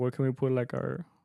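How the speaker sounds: ordinary talk, nothing marked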